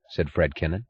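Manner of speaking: ordinary delivery, nothing marked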